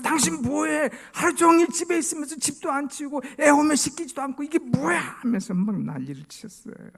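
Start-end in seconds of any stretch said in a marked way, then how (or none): 0.0-5.0 high, loud angry tirade; acted nagging outburst at the wife; annoyed husband. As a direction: rant at a raised pitch. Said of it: "짜증이 나서".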